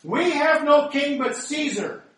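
loud, slow, high defiant declaration; chief priests' declaration. A narrator's reading. Chief priests reject Jesus before Pilate, loud slow declaration. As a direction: proclaim it slowly to Pilate. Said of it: "the chief priests answered".

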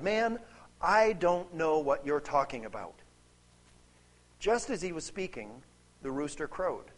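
measured, solemn Bible reading with deliberate pauses; formal narration, quotes lightly dramatized; scripture reading. A narrator's reading. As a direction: read the passage out to a congregation, phrase by phrase. Reads the scripture passage aloud.

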